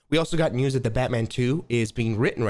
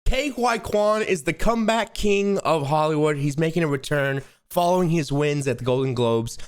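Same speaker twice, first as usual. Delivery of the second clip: announcer intro; 3 semitones higher than usual. Acted. Co-host introducing a clip after the countdown, announcer style. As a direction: announce the comeback like an entertainment host.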